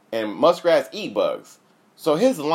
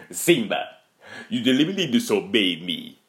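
a hint of a stern father; lightly voiced scolding king; stern lion dad. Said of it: "let me get in my nigga".

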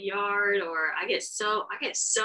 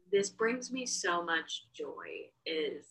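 peaceful, slow; 2 semitones higher, much slower than usual. Retold or imitated. Owner watching her dogs in bed, slow and content. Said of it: "I'm like".

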